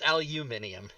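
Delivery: aluminium said as al-YOU-minium; British pronunciation. Shown as a demonstration. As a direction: put a "you" sound in aluminium. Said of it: "that's only how British people say it".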